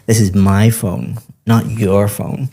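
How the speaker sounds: contrastive stress, "my" then "your" punched, "not your phone" slowed. Shown as a demonstration. Teacher showing a student sentence stress, contrastive stress on "my" and "your". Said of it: "Sentence stress is when we emphasize certain words".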